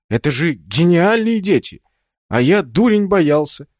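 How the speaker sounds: high, loud delight; overjoyed at the children; ecstatic. A narrator's reading. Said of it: "пришёл в крайний восторг".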